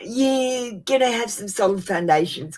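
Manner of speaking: real tears breaking into the reading; crying through it. Real, not acted. Reading cards for Christine, voice crying. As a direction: push the words out while crying.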